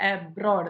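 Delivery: അബ്രോഡ്, weight on "ബ്രോഡ്"; stress on second syllable. Shown as a demonstration. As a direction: keep the opening A of അബ്രോഡ് weak. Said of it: "എ വെറും silent ആണ്".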